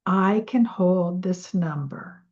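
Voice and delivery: slow, calm affirmation; guided affirmation to the listener. Shown as a demonstration. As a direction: say it slowly and settle into it. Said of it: "So repeat".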